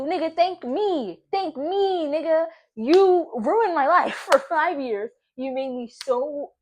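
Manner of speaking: high, loud, drawn-out outrage; indignant rant. Real, not acted. Woman ranting at her absent ex, indignant. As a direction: let the outrage ring out, stretching the key words.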